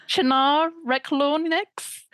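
Shannara Reclornix said slowly, as a spell; backwards speech. Shown as a demonstration. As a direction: read Shannara Reclornix slow and careful, like an incantation. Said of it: "can I say that place name backwards".

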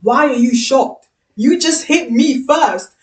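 amused indignation, stretching the words; incredulous retort. Retold or imitated. Retold retort after the slap.

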